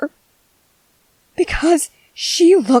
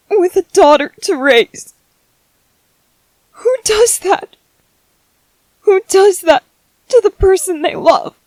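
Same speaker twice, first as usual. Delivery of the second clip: bitter reproach; 4 semitones higher, 4 dB louder than usual. Acted. Angry at dead partner's ghost.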